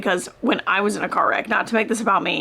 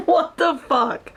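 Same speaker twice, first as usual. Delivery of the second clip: shocked laugh; 6 semitones higher, slower than usual. Real, not acted. Shocked reaction to plot twist.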